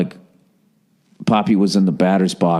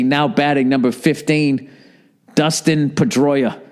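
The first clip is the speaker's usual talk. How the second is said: imitating Pedroia; 6 semitones higher than usual. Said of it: "So Pedroia's like".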